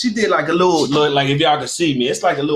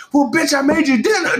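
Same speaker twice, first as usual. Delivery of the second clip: high, loud mock retort; sassy pretend comeback, higher; imagined husband snapping back; 13 semitones higher, 6 dB louder than usual. Wife imagining husband's comeback, high mock snap. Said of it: "'Cause she's like".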